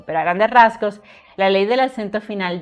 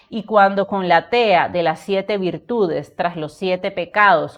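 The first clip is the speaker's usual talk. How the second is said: slow, measured reading of a dramatic poem; poem recitation. Acted. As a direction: declaim each verse with weight and pauses.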